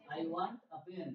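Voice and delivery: very slow, each word spaced out; slow model sentence. Shown as a demonstration. Teacher models the sentence for the class to repeat. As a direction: lay it out slowly so they can copy. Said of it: "আমার মতো বলে".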